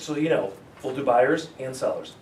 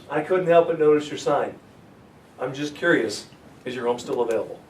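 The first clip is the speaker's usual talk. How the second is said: easy door opener; 5 dB louder than usual. Shown as a demonstration. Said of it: "How easy was that?".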